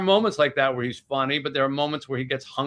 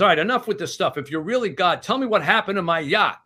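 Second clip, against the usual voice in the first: raised pitch, mildly exasperated challenge; retold haughty confrontation; indignant demand; 5 semitones higher than usual. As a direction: act out an impatient rich man demanding answers. Haughty billionaire challenges God.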